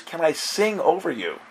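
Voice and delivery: put-on hint at a girl's small, high voice; quiet young girl. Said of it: "in a very quiet voice".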